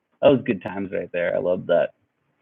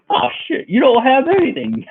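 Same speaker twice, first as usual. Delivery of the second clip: high-pitched, laughing imitation of a robber; amused mock attacker. Attacker patting down his victim, laughing mock pity. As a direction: break into high laughter while imitating him.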